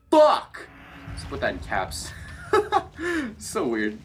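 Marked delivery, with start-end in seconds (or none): 0.1-0.7 sudden scared shout, high and loud; startled yell. Real, not acted. Startled by game.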